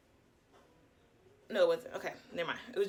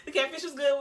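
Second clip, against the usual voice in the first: laughing. Real, not acted. Repeats line laughing.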